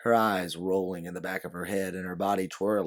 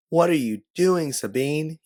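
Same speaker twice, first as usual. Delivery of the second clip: yelled higher and louder over an explosion; scream; 8 semitones higher, 7 dB louder than usual. A narrator's reading. You scream at Sabine over an explosion, loud and high. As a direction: shout her name across the blast. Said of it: "you scream over the sound".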